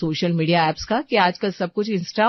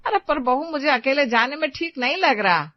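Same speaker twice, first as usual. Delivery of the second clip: put-on older woman, higher, plaintive; pleading mother-in-law; 5 semitones higher than usual. Mother-in-law pleads with daughter-in-law not to go alone, plaintive. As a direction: she asks for help, a little hurt.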